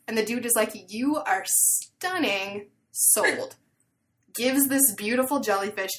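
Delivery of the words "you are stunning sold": dazzled. Retold or imitated. Dude dazzled by beautiful girl.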